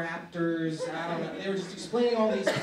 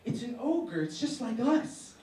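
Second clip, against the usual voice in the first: higher, louder pleading; 4 semitones higher, 3 dB louder than usual. Acted. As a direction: beg your dad desperately. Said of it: "And I said".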